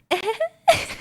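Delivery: high, cheeky "ehe" giggle; short put-on character giggle, rising high; high little mock giggle; Venti. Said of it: "That's what he says".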